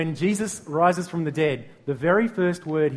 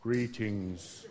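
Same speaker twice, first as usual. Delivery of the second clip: stiff formal greeting; 6 semitones lower, 10 dB quieter than usual. Retold or imitated. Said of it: "this terrible translation".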